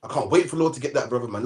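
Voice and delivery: low, quiet gloating; a self-righteous brother gloating under his breath; gloating inner voice. Retold or imitated. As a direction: mutter it with smug relish.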